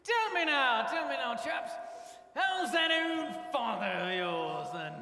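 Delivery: lightly put-on posh English accent. Joseph greeting his brothers in a mild posh English accent. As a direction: play the grand Egyptian host in a posh English accent. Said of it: "This accent is wearing on me".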